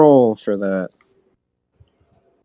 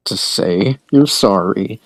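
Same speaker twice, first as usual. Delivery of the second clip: low urging; 7 semitones lower than usual. Acted. Tamaskin presses Lugwasp again.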